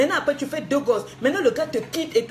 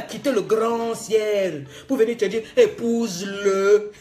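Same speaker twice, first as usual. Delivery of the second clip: mock voice of God; 3 semitones lower, slower than usual. Mocking God telling her to marry.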